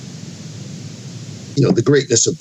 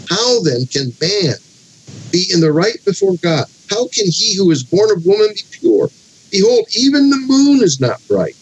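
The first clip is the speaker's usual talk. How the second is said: measured, declamatory Bible reading, pitched up; scripture reading; 4 semitones higher than usual. Acted. Teacher reading Bildad's speech to the class, declamatory scripture reading. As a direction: read the verses out with rhetorical weight.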